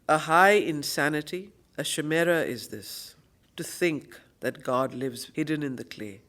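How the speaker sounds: measured, solemn verse reading; poem recitation. Acted. Teacher reading the passage aloud, solemn recitation. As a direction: let each line fall deliberately.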